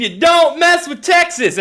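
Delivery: high, punched slogan; mock outburst. Acts host's slogan punchline.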